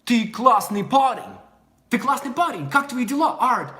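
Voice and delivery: put-on Russian with a foreigner's American accent. American greeting a native Russian guy, American-accented Russian. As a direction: imitate an American speaking Russian. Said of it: "you're gonna have a Russian accent".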